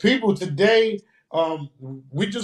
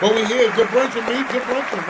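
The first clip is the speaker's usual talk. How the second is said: hyped shout-out; 8 semitones higher, 5 dB louder than usual. Real, not acted. Host shouts the greeting with claps.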